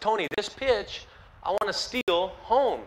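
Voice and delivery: slow, hushed words to the far dugout; quiet deliberate plea. Retold or imitated. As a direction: spell it out slowly and softly, as if mouthing it across the field. Mouthing to manager from base.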